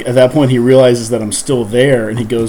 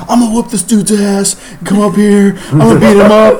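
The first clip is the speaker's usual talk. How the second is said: mock angry threat; 9 semitones higher, 5 dB louder than usual. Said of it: "He's like".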